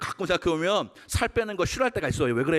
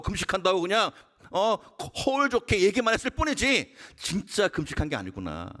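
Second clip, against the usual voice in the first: ordinary talk, nothing marked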